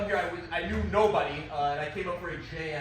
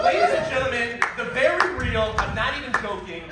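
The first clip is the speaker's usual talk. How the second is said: 1 announcer intro; 4 semitones higher, 8 dB louder than usual. Acted. Introducing surprise voice guest.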